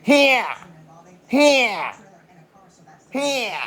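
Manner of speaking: sharp high yell of one word; calling out. Acted. Ranter calling out to the viewer in a high yell.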